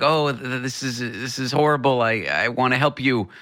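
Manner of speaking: lightly acted concern, stammering a little; mock sympathetic fretting; attentive partner. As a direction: play a mildly distressed, eager-to-help partner. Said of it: "Should you be more attentive and be like".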